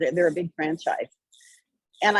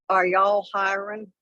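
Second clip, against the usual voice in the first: slow, put-on uneducated Southern-style accent; fake uneducated accent; slower than usual. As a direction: imitate a folksy, uneducated accent, drawing it out. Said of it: "I faked a stupid accent".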